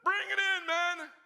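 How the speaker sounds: loud, high call; coach calling in. Retold or imitated. Coach calling the team in, loud. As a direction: bring the team in. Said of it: "coach double blows".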